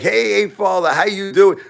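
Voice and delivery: mock a phony pal saying hello; fake-nice greeting. A hater faking friendliness to the father, in a high mock greeting. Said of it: "they'll be like".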